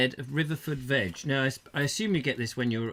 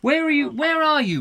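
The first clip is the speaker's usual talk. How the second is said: raised, high call to the phone; 11 semitones higher, 7 dB louder than usual. Real, not acted. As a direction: call loud over a bad line. Calling loudly to faint caller.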